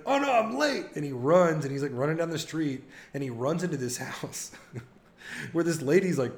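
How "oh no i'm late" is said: high, frantic mock panic; panicked rush. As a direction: squeal it like you just overslept. Eric panicking, running late.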